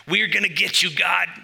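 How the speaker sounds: high, loud puny boast; mock bravado. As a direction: brag up high like a cocky little human. Humans boasting against God.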